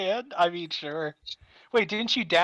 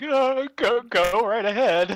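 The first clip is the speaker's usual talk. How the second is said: higher, slower "go right ahead"; polite character voice; 8 semitones higher, 4 dB louder, slower than usual. Acted. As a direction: wave them through politely.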